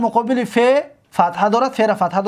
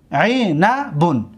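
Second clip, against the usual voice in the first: syllable by syllable; 3 semitones lower, much slower than usual. Shown as a demonstration. Teacher repeats it syllable by syllable.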